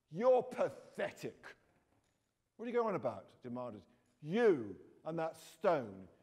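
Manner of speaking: lively read-aloud of a children's novel, voicing the kids; story reading. A narrator's reading. Author reading her book to schoolchildren, animated storytelling. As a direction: read the story out to young listeners.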